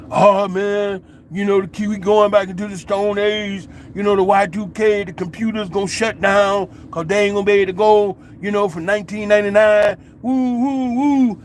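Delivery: mock panic. Imitating people tripping over the Y2K, mock panic. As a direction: imitate worriers getting worked up over Y2K.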